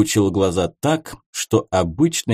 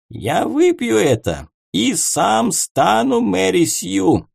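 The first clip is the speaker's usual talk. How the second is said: higher, bold mage vow; defiant declaration; 8 semitones higher than usual. A narrator's reading. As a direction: declare it boldly. Archmage declares.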